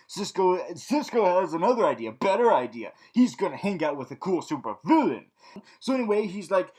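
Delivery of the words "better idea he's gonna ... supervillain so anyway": normal talking voice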